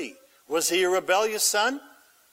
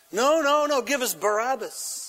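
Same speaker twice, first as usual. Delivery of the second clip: crowd shout; 5 semitones higher than usual. Acted. Crowd rejecting Pilate.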